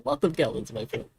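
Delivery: put-on indignant diplomat, a touch of Russian accent; hint of Russian accent. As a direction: play a haggling diplomat with a light Russian accent. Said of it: "sounds like I'm doing a Russian accent".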